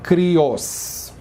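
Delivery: "crios" stressed on the final "os". Shown as a demonstration. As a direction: lean on the end of "crios". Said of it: "a sílaba mais forte é".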